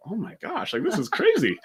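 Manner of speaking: high, half-laughing amazement; laughing disbelief. Retold or imitated. At the gym, laughing at the kid's outburst. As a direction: chuckle through the words in disbelief.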